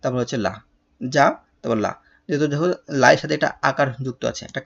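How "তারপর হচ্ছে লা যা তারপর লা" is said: যা, then লা, set apart; syllable by syllable. Shown as a demonstration. Teacher splitting the word for pupils, যা and লা apart. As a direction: separate যা and লা with a pause. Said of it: "তাহলে কি হলো?".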